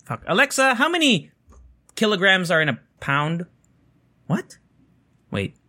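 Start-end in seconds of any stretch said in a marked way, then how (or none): 0.3-3.4 calling Alexa. Real, not acted.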